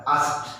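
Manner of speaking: आस्क्ड as one syllable, final consonants together; model pronunciation of आस्क्ड. Shown as a demonstration. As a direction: say आस्क्ड with a crisp closing cluster. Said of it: "आपको बोलना पड़ेगा". (आस्क्ड का आदर्श उच्चारण, एक साथ जोड़कर)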